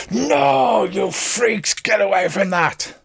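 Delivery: high, outraged spirit's cry; ghostly scream. Acted. Game master as ghostly spirit at the party, high angry scream. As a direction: shriek it as a furious ghost, pitched well up. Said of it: "Ebon Death appears and screams".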